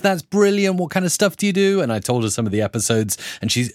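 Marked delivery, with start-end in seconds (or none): 0.0-1.8 imitating Pi's enthusiasm. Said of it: "She says".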